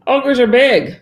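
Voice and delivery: high loud booming on big; storyteller stressing ogre size; big emphasis. A narrator's reading. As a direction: boom out the size.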